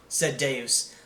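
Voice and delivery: ordinary delivery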